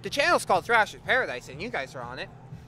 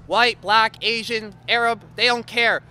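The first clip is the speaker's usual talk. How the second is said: raised, punched list delivery; hyped recruitment pitch; 6 semitones higher, 9 dB louder than usual. Pretend. Host tells guitarists anyone is welcome, punchy announcer pitch. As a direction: sell it like an ad announcer.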